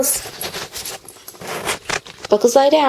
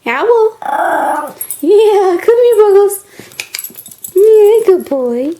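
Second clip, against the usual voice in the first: talking to a dog; 4 semitones higher than usual. Real, not acted. Owner praising dog, high voice.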